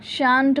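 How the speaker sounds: शांत as one long syllable, shaant; shan't pronunciation. Shown as a demonstration. Teacher showing how shall not contracts, clear pronunciation. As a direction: say शांत with long aa and hard final t. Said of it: "शांत पढ़ते हैं इसको".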